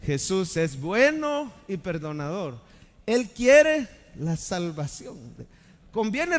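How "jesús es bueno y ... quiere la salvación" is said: louder group recital. Shown as a demonstration. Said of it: "Lo decimos juntos".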